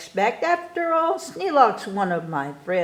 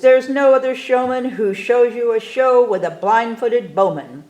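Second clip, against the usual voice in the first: showman boast; 3 semitones higher, 5 dB louder than usual. Acted. Showman boasting of his show.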